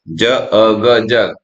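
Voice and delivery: sounding out each letter slowly. Shown as a demonstration. Teacher blending j-a-g slowly for kids. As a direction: stretch each sound for the child. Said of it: "J यू जी jug".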